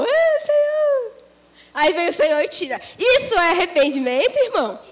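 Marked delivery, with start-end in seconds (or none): 0.0-1.1 bored sigh. Acted. Bored cry from the hole.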